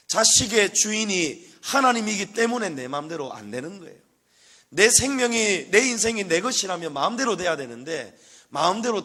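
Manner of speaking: loud, high fervent sermon voice; full-force preaching. Real, not acted. Pastor proclaiming God owns everything, loud fervent preaching. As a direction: proclaim it to the whole church.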